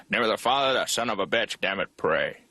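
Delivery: lightly voiced irritable priest; a hint of a grumpy father at prayer; ill-tempered dad. Dad as a priest leading prayer, lightly ill-tempered. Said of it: "My dad originally wanted to become a priest".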